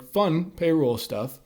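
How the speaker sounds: slow, sincere, meaning the fun; genuine. Retold or imitated. Coworker describing payroll day, genuinely pleased. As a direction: say it like you really enjoy it. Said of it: "sort of genuinely".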